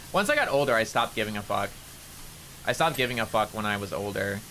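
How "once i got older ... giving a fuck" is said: normal higher voice. Shown as a demonstration. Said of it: "this is probably my normal voice".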